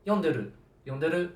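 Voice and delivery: two pitch patterns of "yonderu", said quickly in turn; two accent takes. Retold or imitated. Teacher giving both words to a student, two pitch patterns. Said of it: "See, same pronunciation".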